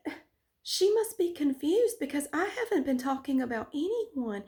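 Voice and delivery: lightly voiced, sugary fake sincerity; angelic innocent act. Teacher denying everything, a hint of sweet innocence. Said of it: "He just became suddenly just so angelic".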